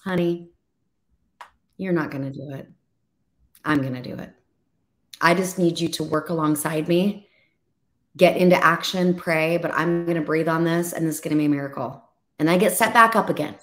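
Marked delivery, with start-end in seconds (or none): 0.0-12.0 God's gentle voice. Retold or imitated. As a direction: speak as God comforting, tender and low. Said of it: "the Lord comes and says".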